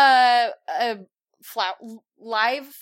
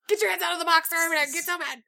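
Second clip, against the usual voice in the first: high-pitched mock threat, not shouted; mock scolding; 5 semitones higher, much faster than usual. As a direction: play at being a fed-up parent. Repeats the scolding less loudly.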